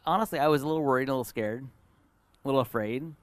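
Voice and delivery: usual speaking voice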